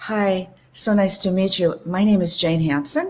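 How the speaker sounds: question-like upward rise at the sentence end. Demonstrating introducing yourself with a rising uptick at sentence end. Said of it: "with an uptick at the end of my voice".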